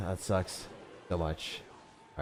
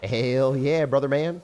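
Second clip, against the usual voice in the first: raised, higher rallying call; warming-up cheer; 5 semitones higher, 4 dB louder, slower than usual. Real, not acted. Player psyching up for a rage attack, half-unleashed cheer. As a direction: lift the pitch and volume, holding some back. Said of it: "full savage mode".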